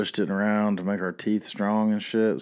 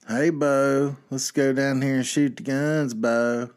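higher, louder hammed-up Southern redneck voice; mocking redneck Southern; 7 semitones higher, 6 dB louder, slower than usual. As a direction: ham up a proud redneck Southern invitation. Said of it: "that proud of being a redneck shit".

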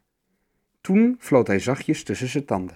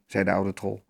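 ordinary delivery

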